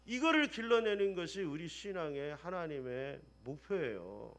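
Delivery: ordinary talk, nothing marked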